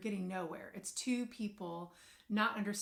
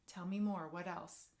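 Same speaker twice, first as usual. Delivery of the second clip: soft listening. Shown as a demonstration. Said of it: "you can say".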